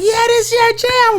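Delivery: high, slow mock wife voice; drawn-out high impression of his wife; quoting wife. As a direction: imitate her cheerful party voice. Wife on FaceTime at party.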